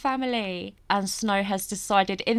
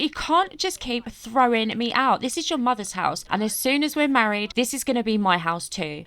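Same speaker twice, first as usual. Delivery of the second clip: mildly indignant dad, a little raised; 4 semitones higher, 4 dB louder than usual. Acted. Dad insisting it will be his house too, mildly indignant. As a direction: argue back with higher pitch and some push. Prince voiced arguing back at his daughters.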